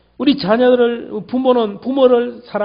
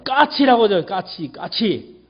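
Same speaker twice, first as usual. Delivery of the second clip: raised voice; slower than usual. Acted. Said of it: "아들의 목소리가 올라갑니다".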